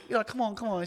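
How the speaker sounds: high-pitched egging-on voice; mock coaxing. Bystanders push her to do it, mock coaxing. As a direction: coax her in a squeaky skit voice.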